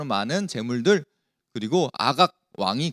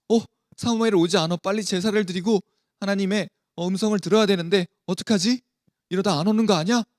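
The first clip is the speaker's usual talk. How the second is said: higher-pitched worried fretting; anxious; 5 semitones higher than usual. Acted. Saul fretting as Samuel fails to arrive, mildly anxious. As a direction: voice a lightly anxious king, pitch held up. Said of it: "마음이 굉장히 불안했어요".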